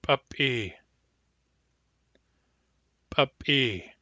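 glottalized p in "Puppy"; hard P. Shown as a demonstration. Teacher giving the hard P example, glottalized "Puppy". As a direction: pop the p of "Puppy" with a closed glottis. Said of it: "Hard P".

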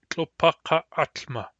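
Tlopakaatma said slowly, long aa held; slow demo. Shown as a demonstration. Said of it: "the result is tlopakaatma".

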